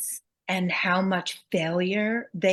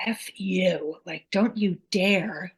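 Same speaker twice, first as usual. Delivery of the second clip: enraged; slower than usual. Retold or imitated. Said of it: "I was so enraged".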